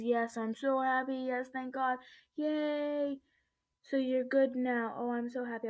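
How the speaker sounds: lightly acted relieved cheer; mildly excited, happy retelling; retold happy relief. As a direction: re-enact the relief, lifting into a yay. Retelling relieved texts on being rescued.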